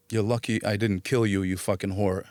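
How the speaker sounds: subdued, matter-of-fact retelling of a threat; reluctant admission. Retold or imitated. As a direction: own up to it, dropping low at the end. Admits the line when asked.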